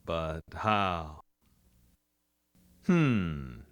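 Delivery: a hint of the Duke; John Wayne impression. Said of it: "Maybe the Duke".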